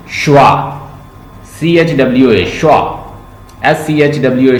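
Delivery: श्वा then letters spelled out; spelling schwa. Shown as a demonstration. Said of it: "श्वा sound".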